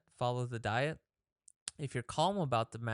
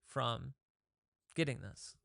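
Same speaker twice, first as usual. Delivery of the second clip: calm question. Retold or imitated. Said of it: "just calmly ask yourself".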